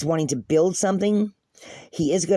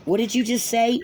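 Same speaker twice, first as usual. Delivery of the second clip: higher-pitched, mildly startled question; startled double-take; 5 semitones higher than usual. Acted. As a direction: act out someone taken aback. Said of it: "picture of somebody going".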